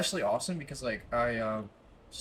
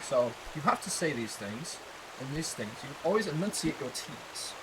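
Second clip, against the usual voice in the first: put-on British accent, enunciating T's; 3 dB quieter than usual. Shown as a demonstration. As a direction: teach in an amateur British accent. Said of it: "I'm talking like it all the time".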